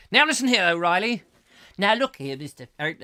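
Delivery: loud, high, blustering hotel owner; Fawlty Towers voice. Retold or imitated. Host re-enacts a sitcom scene with loud bluster. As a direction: bellow at the guests like a flustered hotelier. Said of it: "The added voices are good".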